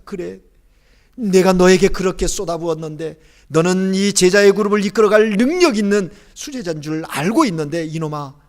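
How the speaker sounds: rising, pained disappointment; resentful lament. Pretend. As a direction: voice the master's wounded complaint to a disciple who failed. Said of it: "원망하시는 그런 눈빛이었을까요".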